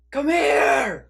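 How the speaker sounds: high, loud mock mom holler; high-pitched imitation of a parent's summons; mom calling out. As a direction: imitate a mom yelling for her kid. Imitating moms calling their kids.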